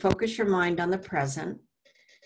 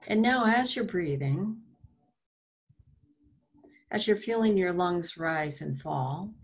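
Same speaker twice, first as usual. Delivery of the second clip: guided breathing. Real, not acted. Meditation host guides listeners to feel their breath, guided breathing. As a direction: lead them gently through each breath, unhurried.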